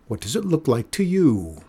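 mild, indignant mock shout; shouted retort. A narrator's reading. Cat feeder to nosy old man, mildly shouted retort. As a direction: toss the question back, testily. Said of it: "shouted Mikola".

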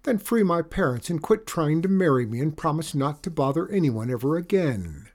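a princess laying down terms; cartoon princess. Princess bargains.

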